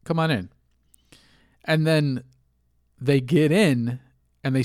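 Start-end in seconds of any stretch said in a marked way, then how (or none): 0.0-0.5 high, breezy, naive voice; gullible welcome. Retold or imitated. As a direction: play the trusting mark letting the scammer in. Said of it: "And you're like".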